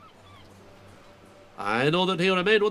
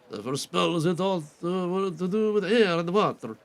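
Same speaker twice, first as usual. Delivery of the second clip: seer voice. Acted. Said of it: "a different voice for him".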